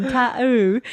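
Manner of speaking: British TATTOO with a glottal stop in the middle; dropped T's. Retold or imitated. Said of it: "people don't pronounce their T's".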